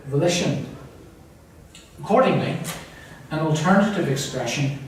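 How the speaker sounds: deliberate, measured quotation reading; formal reading. Acted. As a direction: read the poet's commentary out carefully. Reads poet's commentary aloud.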